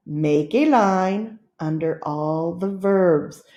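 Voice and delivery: slow, even model reading; slow and clear. Shown as a demonstration. Teacher reads the finished sentence slowly and clearly. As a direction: read it slowly for checking. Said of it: "show you the sentence".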